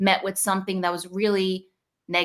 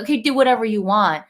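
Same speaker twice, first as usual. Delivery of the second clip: 1 careless give-in; 3 semitones higher, 7 dB louder than usual. Retold or imitated. Giving in to inner child.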